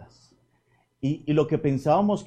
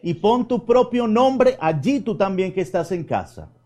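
reassuring; 6 semitones higher than usual. Acted. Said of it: "Padre José Andrés, calma".

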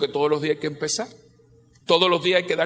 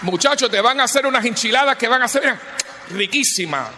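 louder, higher, excited; hyped-up promise; 4 semitones higher, 3 dB louder than usual. Real, not acted. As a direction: sell it with gusto.

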